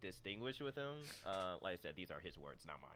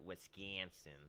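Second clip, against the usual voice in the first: Wisconsin with a local Midwestern vowel; Wisconsin accent; 2 semitones lower, 5 dB quieter, slower than usual. Shown as a demonstration. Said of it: "with an accent is like".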